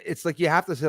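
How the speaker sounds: ordinary talk, nothing marked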